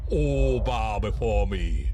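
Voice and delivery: commanding. Acted. Tyrant commanding the galaxy.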